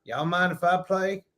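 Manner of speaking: a hint of a country singer, nasal; nasally country-singer voice. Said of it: "I hear this nasally voice".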